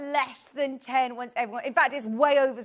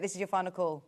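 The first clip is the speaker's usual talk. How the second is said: pilot voice; 4 semitones lower, 3 dB quieter than usual. Pretend. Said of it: "talks like a pilot in our ear".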